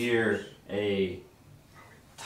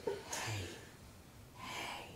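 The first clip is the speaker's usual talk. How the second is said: tiny goblin voice; 15 dB quieter than usual. Acted. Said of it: "And it says".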